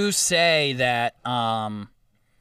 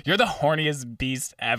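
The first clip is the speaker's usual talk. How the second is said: imitating an offhand remark; nonchalant. Recalling her blurting it to Joe, imitated nonchalance. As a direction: toss it off casually, as if unremarkable. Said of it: "just, like, nonchalantly".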